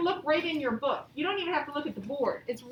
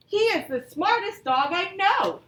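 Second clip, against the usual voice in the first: excited reading; 3 semitones higher, 5 dB louder, slower than usual. Shown as a demonstration. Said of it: "we're showing excitement".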